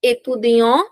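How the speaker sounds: "Étudiant" rising, final t silent; careful model of masculine "Étudiant"; masculine ending. Shown as a demonstration. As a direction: end "Étudiant" on an open nasal vowel. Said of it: "listen to me carefully".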